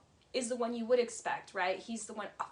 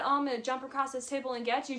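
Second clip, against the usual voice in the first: mock threat; faster than usual. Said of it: "When she said".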